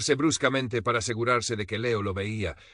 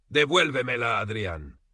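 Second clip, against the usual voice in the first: indignant cry; 3 semitones higher, 3 dB louder than usual. A narrator's reading. Leo yells at Adrián as she chases him, voice breaking with anger. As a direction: voice cracking with indignation, a little louder. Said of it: "la voz rota por la indignación".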